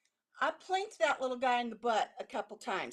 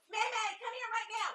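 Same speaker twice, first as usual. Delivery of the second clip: urgent hushed call; 9 semitones higher, 6 dB quieter than usual. Real, not acted. Calling dog away from skunk.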